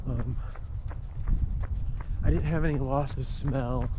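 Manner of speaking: talking while running, a bit breathless; while jogging. Real, not acted. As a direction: speak as you jog outdoors. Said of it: "I'd be running anyway".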